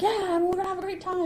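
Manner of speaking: high, held-out crowd greeting; mock emcee enthusiasm; retold stage host. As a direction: pitch it way up to rally a crowd. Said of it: "And he's like".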